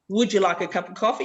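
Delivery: brisk, run-together question; fast everyday offer of coffee; quick natural question. Shown as a demonstration. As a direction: say "Would you like a cup of coffee?" quickly, all linked. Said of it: "So instead of".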